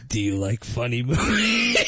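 lightly menacing phone-killer parody; a hint of creepy movie killer; Scream voice. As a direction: do a hammy horror-villain voice, amused. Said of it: "So I did the voice".

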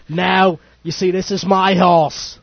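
attempted Welsh accent. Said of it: "I can't do a Welsh accent".

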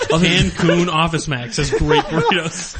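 hammed-up ad read cracking up; laughing mock ad. Laughing through a joke ad for friends.

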